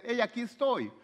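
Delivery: mock announcement. Mocking a God who announces himself.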